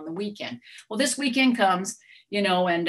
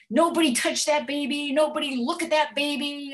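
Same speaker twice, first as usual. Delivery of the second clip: higher, frantic commands to her husband; frantic orders; 8 semitones higher than usual. Retold or imitated. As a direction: bark it like a wound-up grandma. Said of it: "I'm in wackadoodle".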